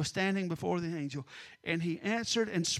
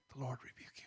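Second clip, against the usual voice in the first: low, whispered quote; hushed rebuke; 6 semitones lower, 14 dB quieter, faster than usual. Acted. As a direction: drop to a whisper, barely voiced. Preacher demonstrates the simple rebuke.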